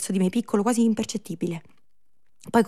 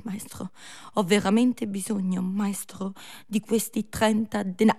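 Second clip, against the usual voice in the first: pleading beggar. Acted.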